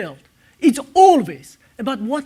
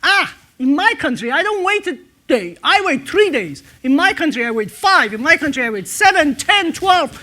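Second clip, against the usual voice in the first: louder, one-upping boast; competitive boasting; 3 semitones higher, 4 dB louder than usual. Retold or imitated. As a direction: top each other's waiting times, loudly. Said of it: "as very competitive executives do".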